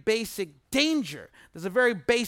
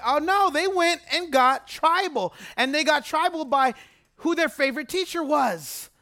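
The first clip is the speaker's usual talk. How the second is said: mock dismayed "oh no"; 4 semitones higher than usual. Preacher telling the church, mock alarmed and raised. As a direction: play up the shock that they got tribal. Preacher dramatizes Corinth division.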